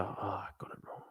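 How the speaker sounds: deflated whisper; soft unvoiced letdown. Real, not acted. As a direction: breathe it out, disappointed. Reads answer after wrong guess.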